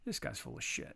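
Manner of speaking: whispered aside to himself; whispered private judgment; inner thought. Retold or imitated. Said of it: "in my brain, I'm like".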